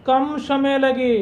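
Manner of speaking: कम समय लगे drawn out slowly; slow, deliberate classroom answer; slow teacher emphasis. Shown as a demonstration. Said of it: "जिसमें क्या लगे?".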